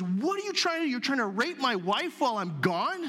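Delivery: the king returning to find Haman with Esther, outraged; indignant king. Retold or imitated. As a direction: catch him in the act with outrage.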